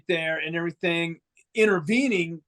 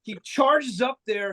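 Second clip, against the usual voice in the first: ordinary talk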